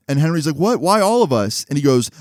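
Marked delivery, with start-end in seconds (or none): 0.6-1.6 mock incredulous, higher pitch; indignant protest. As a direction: protest the unfair blame in a raised pitch. Henry retold protesting group blame.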